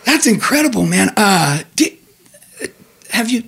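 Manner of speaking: lightly voiced eager bartender. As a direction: pitch an idea like an excited barman. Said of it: "the guy bartender's like".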